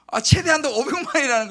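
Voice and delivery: retelling the letdown at full volume; dismayed outburst. Retold or imitated. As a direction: blurt out the crushing news, loud and high. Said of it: "낙심이 확 드는 거예요".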